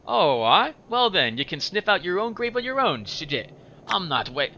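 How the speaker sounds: high, huffy, Scottish-tinged retort. Acted. Anna refusing to wait for the corpse, high-pitched and huffy. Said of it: "I'll talk in a higher pitch for her".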